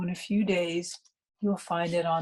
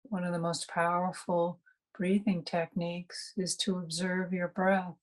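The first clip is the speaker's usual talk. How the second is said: unhurried meditation guide with long pauses; calm meditation instruction, spaciously phrased; guided meditation. Real, not acted. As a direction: guide listeners gently inward, pausing between phrases.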